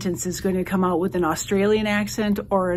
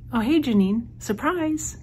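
bright, pitched-up surprise greeting; spring the surprise on her playfully; cheerful surprise; 6 semitones higher than usual. Real, not acted.

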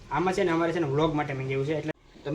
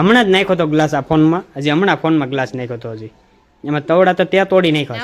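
1 scolding; 10 dB louder than usual. Real, not acted. Husband scolds wife over broken phone.

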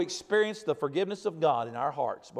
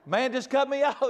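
laughing; 6 semitones higher than usual. Real, not acted. Laughs through apology.

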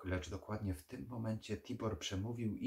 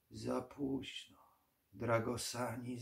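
slow, higher, dying vampire voice; weary old vampire; 4 semitones higher, slower than usual. Acted. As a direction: draw it out like a fading creature.

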